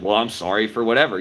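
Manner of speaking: a dismissive "Well, I'm sorry" that brushes off the fault; sarcastic apology. Shown as a demonstration. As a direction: throw the apology away sarcastically. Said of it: "it comes across sarcastic".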